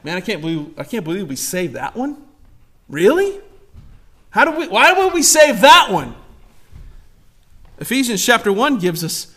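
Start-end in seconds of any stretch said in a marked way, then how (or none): 0.0-2.2 low, hushed mock incredulity; mock disbelief. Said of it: "Trinity has not got a meeting going together going". 2.9-6.1 higher-pitched feigned disbelief; mock incredulity. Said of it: "Trinity has not got a meeting going together going".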